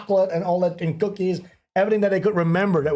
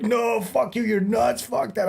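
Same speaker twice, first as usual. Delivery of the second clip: higher-pitched imitated protest; mock indignant refusal; 5 semitones higher, slower than usual. Friend turning down a mushroom dare, mock indignant refusal. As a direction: play the friend balking at a dare.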